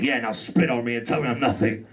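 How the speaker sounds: hammed-up saucy dare; mock kinky taunt. Comic to the cop cuffing him, a mock kinky taunt. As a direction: tease her like he's into it. Mocking the rough female cop.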